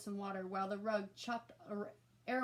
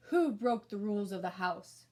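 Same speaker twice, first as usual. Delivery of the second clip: much louder rumbling monster voice; monster rug; 8 dB louder than usual. A narrator's reading. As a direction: loom over the kids as the rug. Rug monster questions kids.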